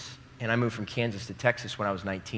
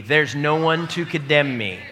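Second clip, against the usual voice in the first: emphatic repeat; 3 semitones higher, 6 dB louder than usual. Shown as a demonstration. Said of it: "Say it again with me".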